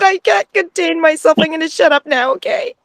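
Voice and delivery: thanks pouring out in a giddy rush, pitch soaring; real overflowing excitement. Real, not acted. Fan thanking Sass, can't contain her excitement. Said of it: "And I'm just so excited".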